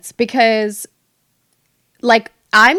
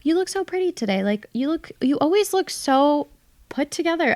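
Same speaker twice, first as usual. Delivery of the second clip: pitched-up mock gushing; gushing coworkers; 6 semitones higher than usual. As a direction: mimic the girls' compliments in a raised voice. Quoting girls at work complimenting her.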